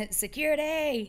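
repeats it through a laugh, pitch jumping up. Real, not acted. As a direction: laugh the word out, amused. Laughing repeat of co-host's joke.

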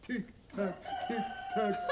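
imitating clock ticking. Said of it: "das Ticken von der Uhr".

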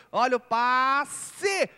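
long, drawn-out alarmed call; excited. Real, not acted. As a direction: stretch the warning out. Pass nearly intercepted.

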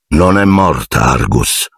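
calm. Acted. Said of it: "disse tranquillamente".

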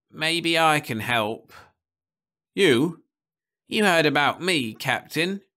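put-on high, eager old man's voice; a hasty old man begging to be taken along; high-pitched eager old Nibley; old man pleading.

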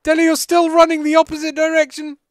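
loud urgent yell across the map; shouting. Real, not acted. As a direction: yell at him to turn around. Yelling at teammate running away.

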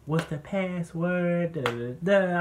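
high, drawn-out imitation of dad yelling; retold yell. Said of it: "he yelled downstairs".

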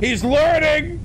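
high excited exclamation. Real, not acted. Reacting to the clip, repeating it.

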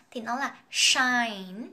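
"shine" with a clear sh at the start; sh sound. Shown as a demonstration. Teacher modelling the sh sound for students. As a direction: stretch the sh in "shine". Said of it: "với cái âm sh ở dòng trên này".

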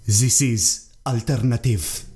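slow, light imitation of a North African accent on "alternative". Echoing the film character, lightly mimicking a North African accent. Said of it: "this is like a North African accent".

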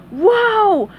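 dazzled by fame; dopey starfish in awe; amazed cry. A narrator's reading. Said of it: "cried Patrick".

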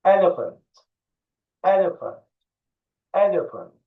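elephant with the f said clearly; model pronunciation. Shown as a demonstration. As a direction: elephant for kids to echo. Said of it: "One, two, three, action".

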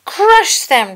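very high, loud cyborg order; Grievous commanding. A narrator's reading. Grievous orders his droid army, loud high command. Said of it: "General Grievous cried".

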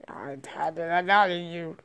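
whispered aside. Pretend. Toy plotting mid-battle, whispered. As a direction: whisper it so no one hears.

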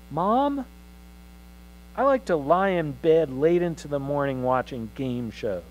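a hint of a boy proudly announcing to his mother; teenage boy declaring.

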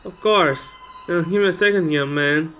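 put-on old lady politely attending to a guest; obliging old lady. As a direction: play an obliging old woman. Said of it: "it's an old lady".

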